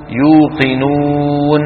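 long pure "oo" in يوقنون with lips pursed forward; rounded lips. Shown as a demonstration. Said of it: "لضم الشفتين". (يوقنون بضم الشفتين ومد الواو)

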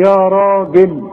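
راجل with a thick, dark "raa"; deliberate weighty ra on راجل; heavy ra. Shown as a demonstration. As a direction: demonstrate the full r in يا راجل. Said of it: "الراء المفتوحة تفخم".

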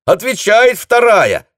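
loud, slow, high happy shout; joyful yell. A narrator's reading. Telephonist joyfully yells to the captain that the line is up. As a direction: bellow the good news across the dugout. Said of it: "радостно заорал телефонист".

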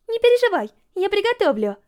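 put-on eager girl gushing about the zoo trip; Yurika's voice. A narrator's reading.

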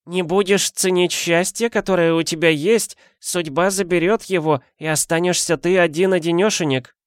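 put-on high, creaky-free old granny voice; old woman voice. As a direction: play the nosy old neighbour. Old woman lectures husband.

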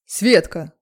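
loud male growl of her name; man growls at the girl to get into the car, loud. Acted. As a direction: bark Светка as a command. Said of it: "снова рыкнул он".

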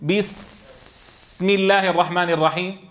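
بسم الله الرحمن الرحيم dragged slowly; over-linger on the resting letters; mock of an over-careful reader; overlong lingering. Shown as a demonstration. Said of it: "فلا يصح أن تقول".

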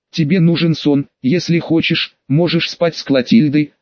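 hoarse, strained words. Acted. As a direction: force it out hoarsely. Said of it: "хрипло выдавил из себя волшебник".

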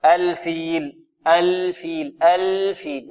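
الفيل drawn out, the ل held still; slow careful الفيل with a clean resting laam; clear laam, no bounce. Shown as a demonstration. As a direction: hold the ل of الفيل clearly without an echo. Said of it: "لا بد من إيضاحها بدون قلقلة".

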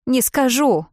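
high, loud squeal; shrieked refusal. Acted. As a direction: squeal it out defiantly. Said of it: "взвизгнула Бриджит". (визгливый крик, высоко и громко)

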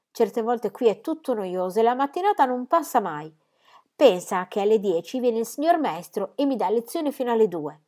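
curious and friendly; lightly voiced young girl.

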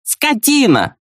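a wife's high furious insult; angry outburst. Acted. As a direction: spit it out while slapping. Wife slaps her husband.

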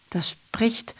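breathy stage whisper, no voice. Acted. Actor whispering to the audience about the naked man. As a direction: hush it like a secret.

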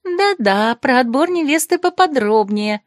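nosy friends egging on; eager gossip. Acted. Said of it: "зашушукались мои подруги".

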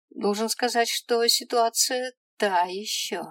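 a smug little devil clerk, sure of himself; brisk little imp. Acted. Imp explaining the dead girl's fate, smug.

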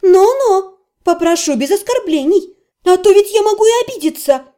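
high, fast mock threat; growled warning. A narrator's reading. Вики рычит на мага, чтобы не оскорблял. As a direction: warn him off with a snarl. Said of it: "рыкнула я".

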